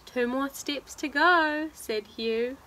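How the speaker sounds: animated storybook narration; reading to children. Acted. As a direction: read it out rhythmically to little listeners. Reads picture book aloud.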